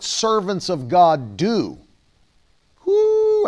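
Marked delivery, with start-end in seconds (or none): 2.8-3.5 a sudden high whoop of real excitement; excited whoop. Real, not acted. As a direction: let out a joyful preacher's whoo. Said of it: "I could teach on this".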